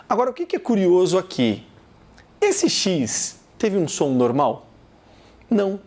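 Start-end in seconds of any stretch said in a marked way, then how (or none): none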